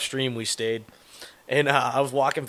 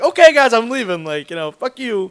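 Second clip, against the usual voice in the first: high exasperated; 8 semitones higher, 6 dB louder than usual. Retold or imitated. Retelling leaving the party.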